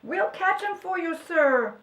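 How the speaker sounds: high, eager call; eager helpers. A narrator's reading. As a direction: pipe up, ready for the chase. Helpers volunteering to chase.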